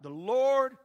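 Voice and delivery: high, loud, drawn-out proclamation; acted cry of worship. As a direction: cry out "The Lord" as an awed crowd. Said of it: "and cried out".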